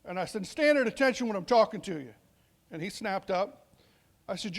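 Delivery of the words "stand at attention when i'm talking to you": first sergeant command. Retold or imitated. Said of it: "I lost my temper".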